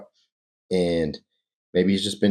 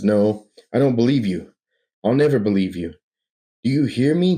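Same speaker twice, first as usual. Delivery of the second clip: louder, rising defiance; defiant; 4 semitones higher, 3 dB louder than usual. Acted. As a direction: refuse every word. Bruce defies the doctor.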